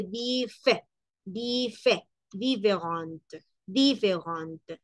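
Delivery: "différente" slowly, with a full é after dif; sounded accented E. Shown as a demonstration. Teacher pointing out the accented E, sounded é. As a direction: break out "di-fé", then say "différente" slowly. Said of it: "la E que sí va tildada".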